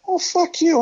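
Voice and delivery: high, sharp mock retort; snapping back. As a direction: fire back at the rude guard. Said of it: "I said".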